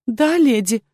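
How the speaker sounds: "Да, леди" with a touch of tearful trembling; almost crying. Acted. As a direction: answer near tears, barely holding on. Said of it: "чуть не плача, практически прошептала девушка".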